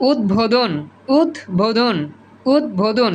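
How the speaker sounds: উদ্বোধন split after ud; ব sounded. Shown as a demonstration. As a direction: say উদ্বোধন as ud, bo-dhon. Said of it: "দয় ব".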